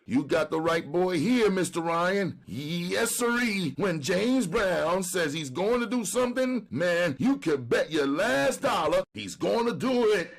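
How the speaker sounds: high, pleading street hustler. Acted. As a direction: beg like a jailed junkie. Brown brags happily.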